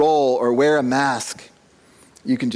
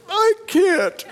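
choked-up I can't. Retold or imitated. Choked up saying goodbye to daughter.

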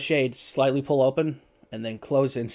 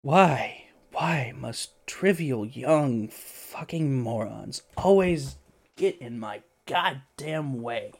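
grumbling hermit; much slower than usual. Acted. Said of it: "he says".

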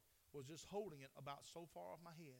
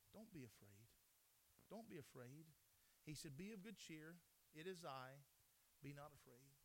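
soft, lower, tender comfort; gentle reassurance; 3 semitones lower, 4 dB quieter than usual. Acted. Jesus to the disciples on the sea, tender and soft. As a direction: soothe them softly. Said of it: "Jesus speaks unto them".

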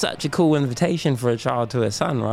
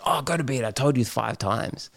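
snappy. Retold or imitated. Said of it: "I can be snappy and be like".

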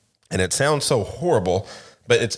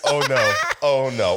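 mock dismay; 5 semitones higher than usual. Retold dismay at accidental leak.

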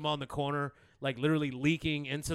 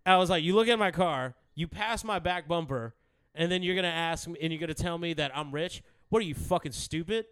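retold rant. Teller retelling how he chewed out the begging kid. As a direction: lay into the kid mockingly.

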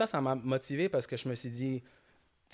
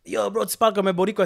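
louder, higher imitation of critics; retold criticism; 8 semitones higher, 10 dB louder than usual. Friends teasing him about his accent, loud and accusing. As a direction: throw the accusation out like a heckling friend.

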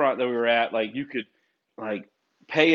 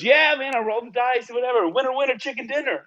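a hammed-up excited redneck; redneck coworker; 12 semitones higher than usual. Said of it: "And he goes".

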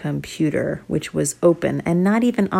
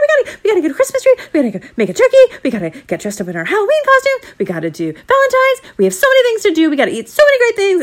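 put-on excited kids; 6 dB louder, much faster than usual. Kids excited about holidays.

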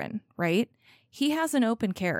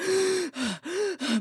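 high, hammed-up gasp; theatrical mock gasp; 9 semitones higher than usual. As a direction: gasp like a scandalized bro. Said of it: "is like".

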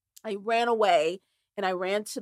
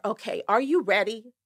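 brisk. Retold or imitated. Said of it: "Her whole voice flipped".

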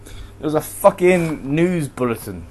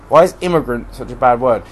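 normal talking voice

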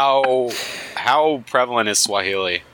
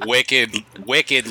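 mock Boston, slow wicked; Boston accent. Riffing on podcast host in mock Boston accent. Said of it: "their accent from up north".

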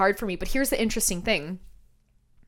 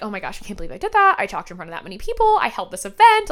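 amazed at herself; 4 dB louder, faster than usual. Retold or imitated. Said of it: "I look back and I'm like".

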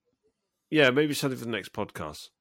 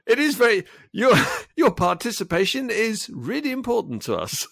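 call center voice; 9 semitones higher than usual. Pretend. Mock hold-line message.

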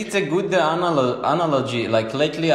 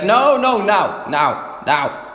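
put-on higher, louder whining child; whiny kid; 5 semitones higher, 3 dB louder, slower than usual. Babysitter imitates a kid demanding things now, whining. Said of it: "they're like".

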